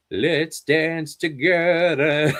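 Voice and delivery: slow, stretched, playful character singing; gator character voice. Retold or imitated. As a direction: draw it out slowly like a cartoon gator. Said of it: "did the voice of the gator".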